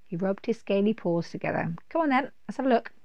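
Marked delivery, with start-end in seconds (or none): 1.9-2.9 quick, high and keen; eager dragon. Acted. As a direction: hurry him along eagerly.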